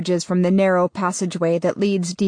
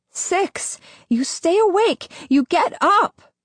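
high, loud, urgent order; loud commanding shout; 12 semitones higher, slower than usual. Acted. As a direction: bark it straight into his skull. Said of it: "her voice coming through a megaphone directly into my brain".

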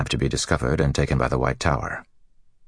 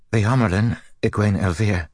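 quivering; 7 semitones higher than usual. Acted. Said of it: "the novice said in a quivering voice".

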